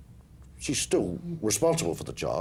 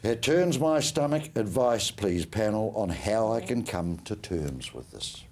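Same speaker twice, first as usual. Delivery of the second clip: slow, grave reading of a letter; 3 semitones lower, slower than usual. Acted. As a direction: read it out slowly and soberly. Reads a listener's letter aloud.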